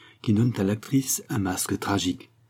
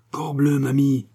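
exclaiming; 6 semitones higher than usual. Acted. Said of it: "s'écria la Genevois".

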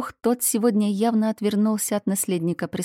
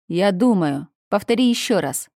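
pleading; 2 semitones higher, 5 dB louder than usual. Acted. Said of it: "взмолился юноша".

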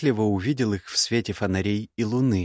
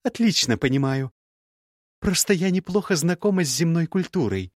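put-on young woman's voice pitched higher, cool and cutting; higher, cool scornful young woman; Gerda's voice; 8 semitones higher than usual. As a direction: play the proud, scornful ex-bride.

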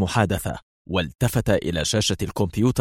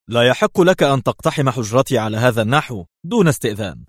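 raised, affronted objection; mildly indignant outburst; indignant protest; 3 semitones higher, 4 dB louder than usual. Acted. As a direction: protest the intrusion hotly. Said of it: "وهتف".

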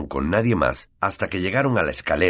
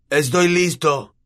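brave Neville; 10 semitones higher, 4 dB louder, slower than usual. A narrator's reading. Neville standing up to friends.

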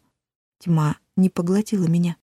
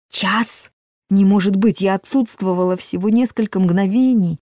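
изумлённо; 3 semitones higher, 3 dB louder than usual. Acted. Героиня не верит.

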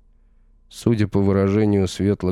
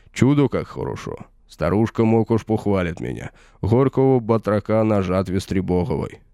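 raised, mocking voice of a smug warrior; gloating villain; 2 semitones higher than usual. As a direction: taunt him from above, savouring every word. Villain gloats over stolen charms.

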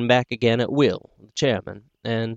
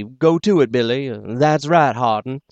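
rally cheering; 2 semitones higher than usual. Acted. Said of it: "like at a political rally".

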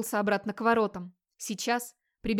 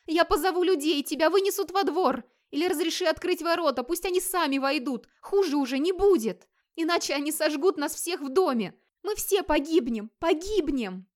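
high, loud tearful begging; a terrified wife pleading, slowing at the end; much higher tearful pleading; crying plea; 7 semitones higher, 3 dB louder than usual. Acted. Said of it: "Хлода плакала".

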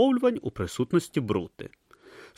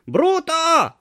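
tortoise god calling; 7 dB louder than usual. Acted. Om calls Brutha from statue.

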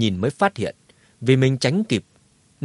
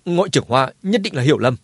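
panicked; 2 semitones higher, 3 dB louder, faster than usual. Acted. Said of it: "hốt hoảng nói".

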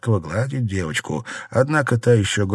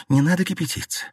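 restrained smile; 9 semitones higher, faster than usual. A narrator's reading. Wife calms her husband, restrained and smiling. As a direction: hold back and say it with a smile. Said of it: "с улыбкой произнесла".

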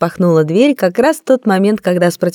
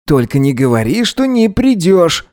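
put-on upset young man. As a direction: let the letdown show early. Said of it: "заранее расстроился парень".

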